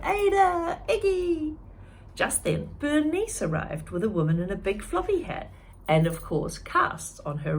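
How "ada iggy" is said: loud, high happy cheer; cheering names with delight. Acted. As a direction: greet them like old friends. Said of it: "they cheered".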